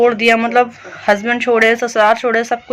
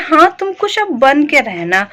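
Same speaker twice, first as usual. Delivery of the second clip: mock-encouraging jibe, pitched up; retold taunting advice; 4 semitones higher than usual. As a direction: imitate a neighbour's needling remark. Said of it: "जिस उस अंदाज से बोला ना". (पड़ोसी के ताने की नकल)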